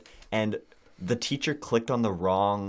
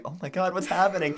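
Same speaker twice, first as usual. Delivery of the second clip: laughing disbelief; 10 semitones higher than usual. Retold or imitated. Kids react to melting pineapple.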